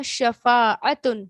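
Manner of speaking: شفاعتن drawn out very slowly with the final tan clear; stressed tanween. Shown as a demonstration. Teacher points out the tanween in شفاعتن, slow and stressed. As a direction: stretch شفاعتن slowly so the tanween ending is heard. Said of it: "یہ جو تنوین آتی ہے نا".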